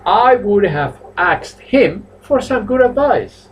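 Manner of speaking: teacher gives a slow model answer; slow model sentence. Shown as a demonstration. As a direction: spell the sentence out slowly. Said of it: "my sentence is".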